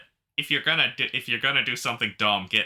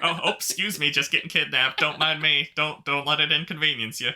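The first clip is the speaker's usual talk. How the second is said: put-on Michigan accent; 5 semitones higher than usual. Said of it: "Is your Michigander coming out?".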